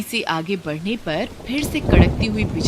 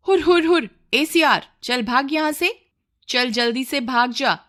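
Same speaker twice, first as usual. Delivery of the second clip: much higher, louder shooing yell; shouting to scare off; 6 semitones higher, 3 dB louder than usual. Acted. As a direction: drive the jackal away with a loud cry. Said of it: "जोर-जोर से चिल्लाना शुरू कर देते हैं". (सियार को भगाने के लिए ज़ोर से चिल्लाना)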